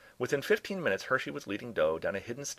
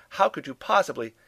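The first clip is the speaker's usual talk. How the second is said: raised, higher voice to another room; calling out; 8 semitones higher, 8 dB louder than usual. A narrator's reading. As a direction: call out loudly in amazement. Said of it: "Furman called out from the dining room".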